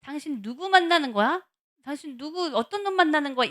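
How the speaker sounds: mock jealous accusation; accusing questions. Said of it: "이 내면의 안에 진짜 뜻은".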